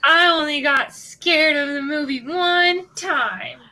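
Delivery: slow, proud bragging; boastful. Acted. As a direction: brag it out slowly. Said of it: "I love the way you said that".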